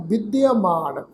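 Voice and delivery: ਵਿਦਿਆਮਾਨ with short "i"s and a long "maan"; careful pronunciation. Shown as a demonstration. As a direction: model ਵਿਦਿਆਮਾਨ as "bidiamaan", drawing out the end. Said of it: "ਇਸ ਢੰਗ ਨਾਲ pronounce ਕਰਾਂਗੇ".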